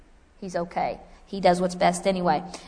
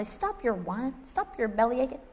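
mother scolding; 2 semitones higher, 8 dB quieter than usual. Retold or imitated. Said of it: "Because I'll say".

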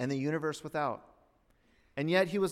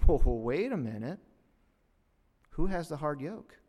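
normal talking voice

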